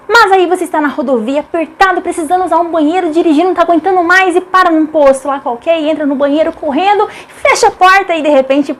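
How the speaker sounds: hurried, dramatic anecdote; urgent storytelling. Acted. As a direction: build the little emergency in a rush. Tense urgent bathroom anecdote.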